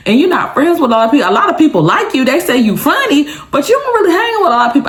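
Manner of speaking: put-on high, fast girl's voice quoting her. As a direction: play the curious friend, quickly. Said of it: "She was like".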